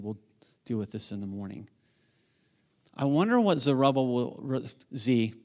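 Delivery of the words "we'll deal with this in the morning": calm restraint. Retold or imitated. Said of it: "he wanted to calm himself down".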